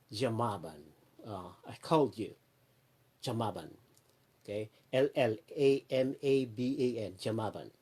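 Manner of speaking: Jamaban said JAH-ma-ban, double L as J; Jamaban, the L L at the start turned into a J. Shown as a demonstration. Vlogger teaches friends how the name is said, double L as J. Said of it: "That's how they pronounce it".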